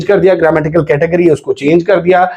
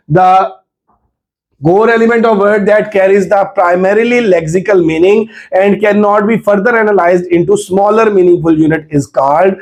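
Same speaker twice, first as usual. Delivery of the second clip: very slow, word by word dictation; reading a test question; much slower than usual. Shown as a demonstration. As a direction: spell the question out for students. Reads MCQ aloud slowly.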